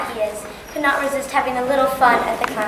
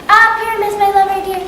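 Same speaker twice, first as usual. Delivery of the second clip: monstrous little voice; 5 semitones higher than usual. Acted. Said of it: "I will speak in a monstrous little voice".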